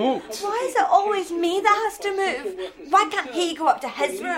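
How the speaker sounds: whiny protest. Acted. Teen complains about having to move.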